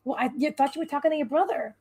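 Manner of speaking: ordinary delivery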